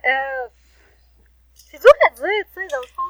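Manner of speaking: distant and faint off-mic; speaking too far from the microphone. Real, not acted. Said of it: "On t'entend pas très fort".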